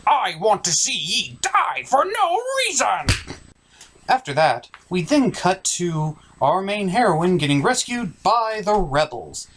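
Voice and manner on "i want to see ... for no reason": pirate voice. Acted. Hero voiced murdering a guy.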